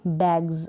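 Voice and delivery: बैग्स ending in a voiced "gz"; buzzed final Z. Shown as a demonstration. Teacher models the Z sound of plural S, buzzed final Z. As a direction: end बैग्स on z, as "bagz". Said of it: "ज करके जो इसका sound आता है".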